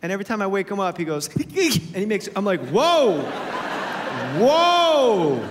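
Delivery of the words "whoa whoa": loud, rising-falling startled cry; startled kid whoa. Retold or imitated. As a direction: jolt awake startled. Imitating son waking up.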